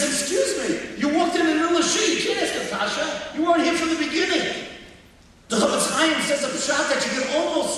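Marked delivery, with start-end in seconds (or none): 0.0-4.7 higher-pitched scolding, mildly put on; mock-indignant teacher's objection; indignant rebuke. Rebbe to student who came late to class, mildly indignant.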